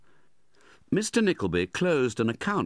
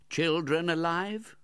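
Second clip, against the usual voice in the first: Noggs's voice; 10 semitones higher, slower than usual. A narrator's reading. Noggs asks about the children.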